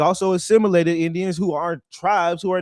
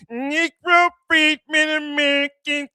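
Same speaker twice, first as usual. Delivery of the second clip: mock shout; 8 semitones higher than usual. Mocking the rival's phrase, shouted slowly. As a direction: bellow the phrase like a slogan.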